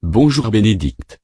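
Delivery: second synthetic voice greeting; half robot voice, falling end. Acted. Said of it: "les voix synthétiques".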